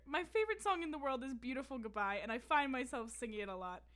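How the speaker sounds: lightly voiced earnest kid writing to a star; reading her old fan letter. Reading her sixth grade DM to a singer aloud, earnest kid fan. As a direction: read it like your thirteen-year-old self, sincere. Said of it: "I said".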